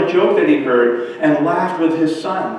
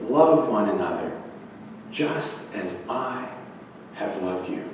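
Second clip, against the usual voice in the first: solemn tender quote; 6 semitones lower, 9 dB quieter than usual. Acted. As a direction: let each phrase settle gently. Solemnly quoting Jesus to the children.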